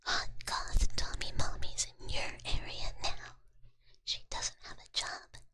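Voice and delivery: punchy advertisement read kept in a whisper. Acted. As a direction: sell it like a spam ad, all in whisper. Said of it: "Should I do this in the voice?".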